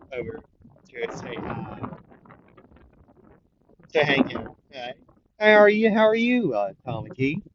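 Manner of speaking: excited shout of welcome; cheery Fat Gum greeting. Retold or imitated. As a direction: greet the kids like a jolly big uncle. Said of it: "Fat Gum would say".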